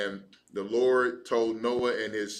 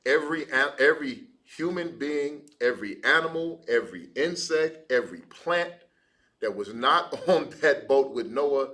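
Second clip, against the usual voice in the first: louder rising preacher's build through the list; preaching; 2 semitones higher, 4 dB louder than usual. Acted. Preacher stresses to class that the flood destroyed everything, rising emphasis. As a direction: drive each "every" home like a preacher.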